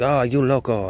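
high mock exclaim "oh, you loco"; lightly voiced old Hispanic coworker; imitating old lady. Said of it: "And she's like".

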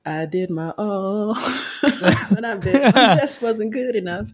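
slow, amused mock lament; laughing, drawn-out teasing. Real, not acted. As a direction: tease him through a laugh. Mocks friend's line, laughing.

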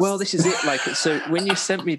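loud, high laughing burst; laughing shout. Real, not acted. Laughing loudly back at his co-host's mock outrage.

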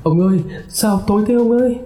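high, fast, frightened call in the dark; fearful call. Acted. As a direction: call out to her husband, scared. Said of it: "sợ hãi gọi".

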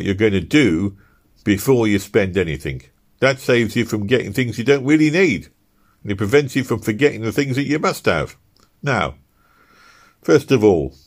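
lightly voiced husband, brisk and businesslike; husband planning the shopping list with his wife, practical; husband's voice. Easton voiced in the story.

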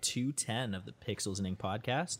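smooth late-night radio host; sultry radio voice. Acted. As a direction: ease into a sultry DJ welcome. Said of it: "That's a very sultry voice you have going on".

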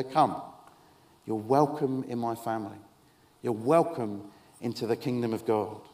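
low, tender invitation; gentle welcome. Acted. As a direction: welcome someone in, calm and low. Jesus welcoming a troubled woman.

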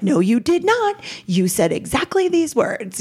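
lightly voiced scolding mom; mock angry mom. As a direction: throw it back at the child like the mother. Mother confronting child with recording.

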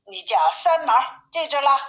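lightly voiced storybook mother; mother bear. A narrator's reading. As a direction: instruct a little one, lifting the last words. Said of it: "说".

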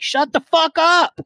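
high, slow, mock-furious snap; exasperated shut up. Drafter mock-yelling at a know-it-all league mate, exasperated. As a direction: fling it out like a fed-up drafter. Fed-up reply to draft chatter.

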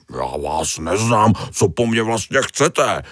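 a touch of bristling defiance; half-hearted defensive outburst; mild mock snapping. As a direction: puff up and snap at the fish, lightly. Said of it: "vyjel najednou".

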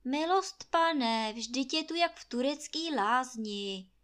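ordinary delivery, nothing marked

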